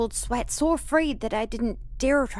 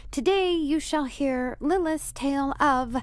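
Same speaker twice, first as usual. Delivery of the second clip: grand storyteller voice; 2 semitones higher, slower than usual. Pretend. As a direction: play the ancient cursed one telling her tale. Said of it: "You're no fun".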